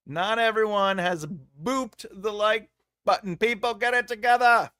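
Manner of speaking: high, loud mock British voice; bad British accent. Host scolding viewers who haven't booped like, bad British accent. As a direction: put on a hammy British accent. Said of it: "doing that in her British accent".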